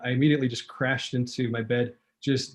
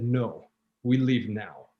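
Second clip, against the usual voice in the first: deadpan; 3 semitones lower, slower than usual. Retold or imitated. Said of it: "with this deadpan stare".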